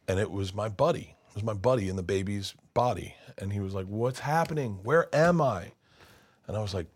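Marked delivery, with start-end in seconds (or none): 3.9-5.7 mildly panicked, rising high on the question; bewildered panic. Acted. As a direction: act out waking up totally disoriented. Friend waking in baby's body.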